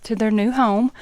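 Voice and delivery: slightly winded from the stairs; out of breath. Real, not acted. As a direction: talk while still catching your breath. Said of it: "So if I'm out of breath".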